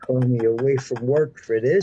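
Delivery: half-shouted mock outrage, close to tears; mock angry dad. Friend imitating the angry dad, mock shout. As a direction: play the furious father pulled from work.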